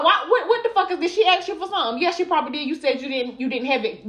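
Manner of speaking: high-pitched indignant retold tirade; cussing out. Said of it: "cussed him the fuck out".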